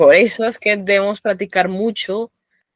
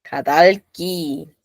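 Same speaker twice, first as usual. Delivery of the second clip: slow demo syllables; much slower than usual. Shown as a demonstration. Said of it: "con una palabra se pueden generar".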